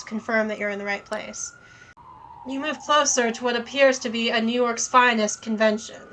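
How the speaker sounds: even game-text read; story narration. A narrator's reading. Reads the game text aloud.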